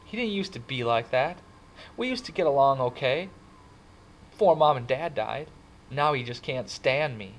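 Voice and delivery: high, agitated, loud venting; upset outpouring. A narrator's reading. Kid confiding that brother hit him, upset and agitated. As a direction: pour out the hurt to a friend.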